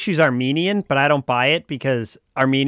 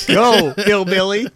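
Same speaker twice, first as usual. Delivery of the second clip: mock dismissive; 6 semitones higher, 4 dB louder, slower than usual. Acts out a show line.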